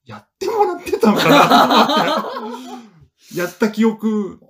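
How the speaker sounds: high, laughing through the words. Real, not acted. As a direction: laugh it out, amused at yourself. Laughing at own failure.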